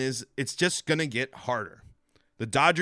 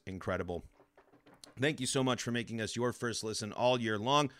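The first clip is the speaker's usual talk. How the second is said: voice giving out; 5 dB quieter than usual. Real, not acted. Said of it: "as my throat is giving out here".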